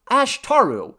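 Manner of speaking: high, loud call of a name. A narrator's reading. Man trying to get the god's attention, calling out. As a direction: cut through the singing. Henry calls over the singing.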